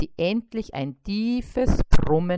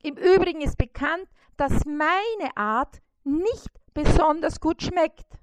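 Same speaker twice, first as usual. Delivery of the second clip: much higher, louder beetle voice; eager beetle; 9 semitones higher, 4 dB louder than usual. A narrator's reading. Trapped beetle agreeing with the fly, high loud voice. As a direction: chime in keenly. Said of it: "mischte sich der Käfer ein".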